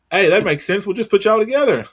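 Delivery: high-pitched mock enthusiasm; mock booker pitch. Mocking bookers' reasoning for the pairing.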